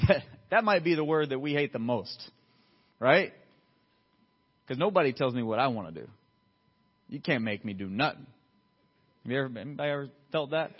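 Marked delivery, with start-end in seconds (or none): 4.7-8.3 low-pitched stubborn refusal; lightly acted rebel, voice dropped low; mock defiance. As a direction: play someone refusing to be bossed. Acts out resistance to obedience.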